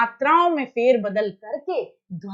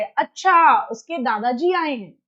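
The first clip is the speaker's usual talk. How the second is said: gentle correction; 3 dB louder, slower than usual. Shown as a demonstration. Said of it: "teacher उसको ऐसे correct करे".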